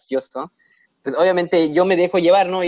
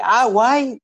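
high-pitched imitation of amazement; astonished exclamation; 7 semitones higher than usual. Student reacting to the English teacher leaving, astonished. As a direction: blurt it out high, in surprise. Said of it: "De asombro".

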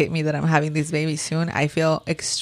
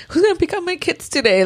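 mock panic; 11 semitones higher than usual. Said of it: "And I'm like".

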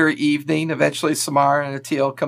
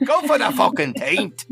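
Scottish brogue pushed higher, egging harder; Scottish brogue shout; 5 semitones higher than usual. Acted. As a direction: press him in a hammed Scottish brogue, higher. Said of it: "his Scottish accent's terrible".

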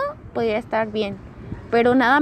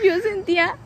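high breaking laugh, slow; 9 semitones higher, slower than usual. Real, not acted. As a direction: fight through laughter. Se ríe al contar. (risa aguda entrecortada)

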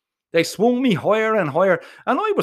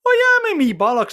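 much higher, loud scoffing shout; indignant retort; 11 semitones higher, 4 dB louder than usual. Acted. Dangling boy scoffing up at his friend, indignant. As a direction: fire it back in disbelief.

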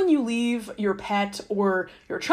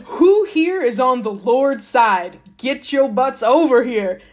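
slow, drawn-out call to rally; a mock leader summoning the faithful, slowly; commanding Moses; 4 dB louder, slower than usual. Moses calling the Levites to his side, slow mock command.

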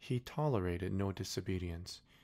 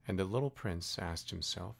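ordinary delivery, nothing marked

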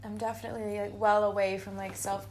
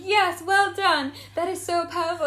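mock praise; 7 semitones higher, 9 dB louder than usual. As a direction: drag out the praise. Retold praising crying friend.

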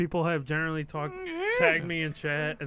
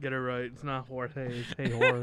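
laughing after spit take; 4 semitones lower than usual. Real, not acted. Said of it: "an actual spit take".

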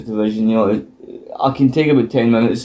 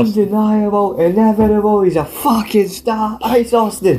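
put-on New Zealand accent; 8 semitones higher than usual. Co-host echoing the wrestling promo in a hammy New Zealand accent. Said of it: "I can't do New Zealand that well".

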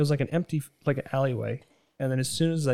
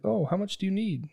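higher eager seller; haggling seller; 7 semitones higher than usual. Retold or imitated. Seller haggling with Julian, voice raised higher. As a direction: lean in to haggle. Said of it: "He's like".

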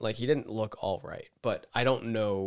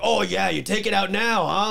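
high, loud mocking accusation; retold sarcastic yelling; 8 semitones higher, 5 dB louder than usual. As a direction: sneer it at the cashier. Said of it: "he's, like, yelling".

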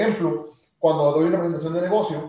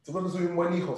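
niño que convence; 6 dB quieter, faster than usual. Retold or imitated. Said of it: "sí le digo".

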